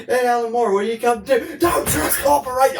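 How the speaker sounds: high-pitched, droning cartoon voice; hammy cameo impression. Mocking unscripted Simpsons cameo, hammy impression.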